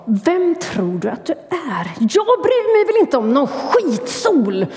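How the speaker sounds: a hammed-up grumpy growl; mild mock roar. Grumpy hedgehog snaps at swallow, mild mock roar. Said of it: "röt han".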